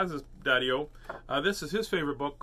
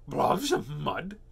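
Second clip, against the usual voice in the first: slow, questioning villain voice; scheming storybook character, incredulous; devious dingo; 3 dB louder, much slower than usual. Acted. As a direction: draw it out slyly.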